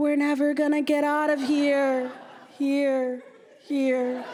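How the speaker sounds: trailing echo on final word. Retelling a trip, the speaker mimics the echo of a scream: mimicking echoing. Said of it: "(mimicking echoing)".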